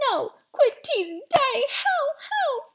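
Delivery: very high, garbled protest; muffled, squealing plea; mouth stuck. Acted. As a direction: protest with lips frozen fast. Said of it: "sounding like he had something in his mouth".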